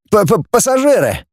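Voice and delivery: high, stuttered first consonant; stammering. A narrator's reading. Passenger explains who they are to the android, stammering.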